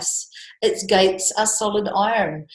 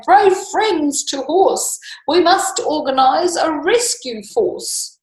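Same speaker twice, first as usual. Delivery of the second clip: higher, louder call to arms; rallying cry; 8 semitones higher, 4 dB louder, slower than usual. Acted. Custard calls friends to rescue Belinda, rallying. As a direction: rouse them to the rescue. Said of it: "he cried".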